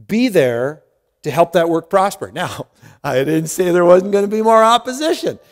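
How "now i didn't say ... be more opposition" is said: light laugh. Real, not acted.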